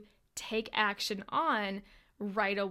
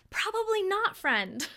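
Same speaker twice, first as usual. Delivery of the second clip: a sing-song higher "Probably not, friend"; playful high tease; 9 semitones higher than usual. Acted. Teasing answer, then repeated.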